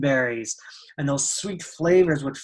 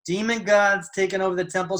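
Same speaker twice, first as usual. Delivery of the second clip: slightly higher, doubting question; mild disbelief; 4 semitones higher than usual. Acted. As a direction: question it as if taken aback. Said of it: "like, in disbelief".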